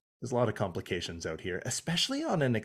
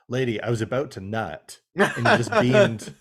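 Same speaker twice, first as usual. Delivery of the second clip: laughing mock outrage; 7 dB louder than usual.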